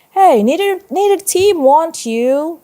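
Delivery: high, loud playground rejection; rejecting schoolkid. A narrator's reading. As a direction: call it out as a kid shutting someone out. Player rejects Del in story.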